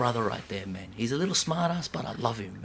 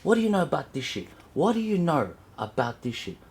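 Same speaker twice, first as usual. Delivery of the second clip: angry outburst; 5 semitones higher than usual. Real, not acted. Angry ranter demands what kids know about hip-hop. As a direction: fire the question back at them. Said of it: "I'm fucking angry".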